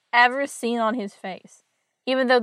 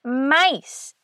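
high, loud mock scream for help; cartoonish yelp of alarm, not full-out; retold scream; 5 semitones higher, 4 dB louder than usual. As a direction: imitate a panicked cry with a falling swoop. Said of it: "jumps up on a chair and screams".

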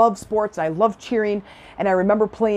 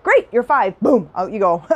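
brisk send-off; 4 dB louder than usual. Retold or imitated. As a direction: imitate mom cheerfully shooing a kid out. Acts out mom's brisk send-off.

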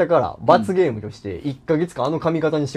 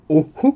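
mock reaction noise; 5 dB louder than usual. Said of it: "とか、なんかな".

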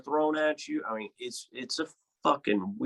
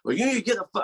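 mock angry bartender; 10 semitones higher, 4 dB louder, much faster than usual. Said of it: "And he's like".

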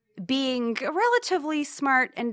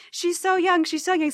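mock lament; 8 semitones higher, 3 dB louder than usual. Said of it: "saying this in Spanish".

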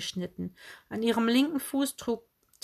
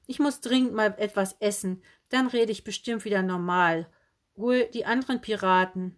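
called out; 2 semitones higher, 3 dB louder than usual. Acted. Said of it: "sie rief".

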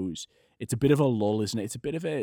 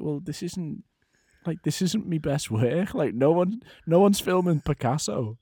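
mock grumpy; 4 semitones higher than usual. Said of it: "it comes across as quite grumpy".

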